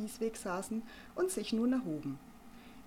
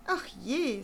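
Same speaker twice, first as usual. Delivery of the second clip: sighing; 4 semitones higher than usual. Acted. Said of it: "seufzte Arabella Vogel".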